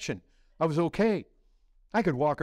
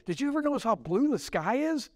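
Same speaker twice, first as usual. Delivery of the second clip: higher-pitched, swooping amazed question; wide-eyed wonder; 7 semitones higher, faster than usual. Acted. New believer telling people about the sky, amazed. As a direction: ask it as a fresh discovery.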